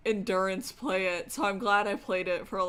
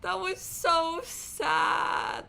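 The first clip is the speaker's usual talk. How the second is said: slow, higher, sobbing words; crying; 9 semitones higher, 4 dB louder, much slower than usual. Real, not acted. Streamer sobs to chat over the scene, slow and higher. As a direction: drag it out through tears.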